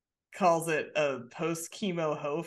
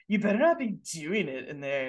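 Stewie. Retold or imitated. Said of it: "I don't know why he sounds like Stewie".

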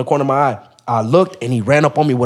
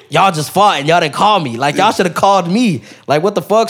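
higher, indignant complaint; retold pissed off; 4 semitones higher than usual. He confronts homies who didn't call him, retold annoyance. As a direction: scold your friends in mock outrage. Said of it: "I'm pissed now".

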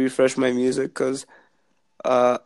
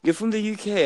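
put-on quoting the girl; 9 semitones higher than usual. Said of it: "she was like".

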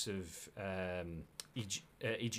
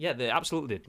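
arguing back; 2 semitones higher, 5 dB louder, much faster than usual. Pretend. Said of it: "Voices in your head".

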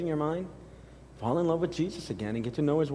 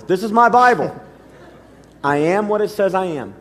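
louder, higher, full declaration; his own preaching voice; 4 semitones higher, 7 dB louder than usual. Shown as a demonstration. Pastor leads the mantra himself, loud and high. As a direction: proclaim it as your own. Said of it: "I'll just do it in my voice".

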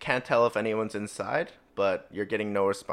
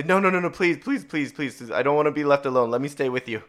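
acted plea, higher at first, tumbling out; panicked pleading; 4 semitones higher, 5 dB louder, faster than usual. Panicked lady begging not to be left alone, pleading. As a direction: beg in a mildly frantic voice.

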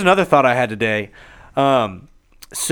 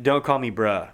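deadpan, slightly lower quoted retort; straight-faced retort; 4 semitones lower, slower than usual. Retold or imitated. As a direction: imitate her refusing with a straight face. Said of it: "Like, straight face".

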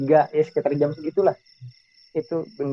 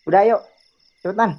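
higher, mildly urgent hurry-up; retold urging; 4 semitones higher than usual. Friend hurrying the juniors at night, retold urging. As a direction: act out hurrying someone along.

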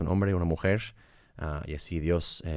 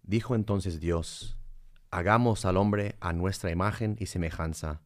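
scripture reading. Acted. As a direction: read it like scripture. Reads Genesis aloud.

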